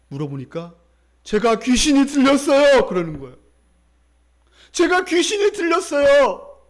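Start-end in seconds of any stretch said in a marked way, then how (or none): 1.2-2.9 loud, high mock wail; imitated tearful cry. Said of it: "울면서 이렇게". 4.7-6.6 high, loud, drawn-out mock wail; imitated tearful cry. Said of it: "울면서 이렇게".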